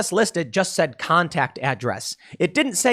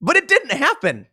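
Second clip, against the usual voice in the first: higher, incredulous restatement; mock disbelief; 9 semitones higher than usual. Shown as a demonstration. Paraphrasing the fact check back in mock disbelief. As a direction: sound baffled by the absurdity. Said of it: "Let me say that again".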